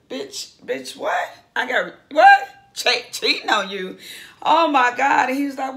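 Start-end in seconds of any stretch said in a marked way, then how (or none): 0.1-4.0 a whispered bitch, then a loud baffled what; shocked disbelief. Retold or imitated. Husband stunned by a cheating claim, whisper to loud disbelief. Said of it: "looking like". 4.4-5.3 a loud, high real gasp of a reaction; oh my god. Real, not acted. Vlogger reacting to reality show drama, loud surprise.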